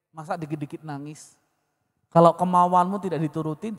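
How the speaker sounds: put-on patient, soothing correction to the boy; father gently coaching his son not to cry; gently, slowly. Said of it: "Saya bilang pelan-pelan".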